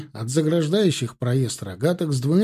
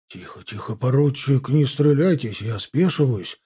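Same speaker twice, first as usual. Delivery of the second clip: frightened captain's husky surrender; wheezy croak. A narrator's reading. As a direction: croak nervously to calm an armed man. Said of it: "просипел капитан".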